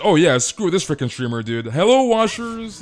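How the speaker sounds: high, loud mock snub then sing-song hello; mock friend voice. Streamer imitating friend snubbing him, high loud mock hello. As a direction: switch from rude to squeaky sweet. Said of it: "And she said".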